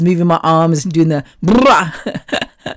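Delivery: slow, lump in the throat; choked up. Real, not acted. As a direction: voice catching with tears. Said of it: "bit of a lump in my throat there".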